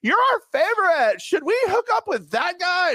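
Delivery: put-on high, slow gushing young woman; imitating a gushing young woman; high girly voice. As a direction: coo it like a sorority girl.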